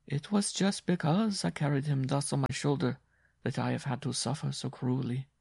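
a worn-out woman telling her hardship; Jean's voice. Acted.

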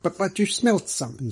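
high-pitched, stammered reproach; reproachful. Acted. Middleton pressing the evasive detective, reproachful. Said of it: "said Mister Middleton reproachfully".

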